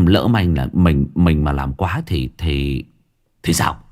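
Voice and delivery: nervous, halting pleading with the boss; stammering. Acted. Frightened underling begs the boss to spare Chí, stammering. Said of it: "Thằng này lắp bắp".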